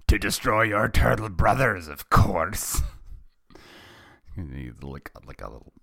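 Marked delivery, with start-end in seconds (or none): 0.1-2.8 loud, growing piratical villain; hammed-up evil pirate voice; villain with pirate twang. A narrator's reading. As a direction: snarl it like a pirate mastermind. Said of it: "little pirate voice going there".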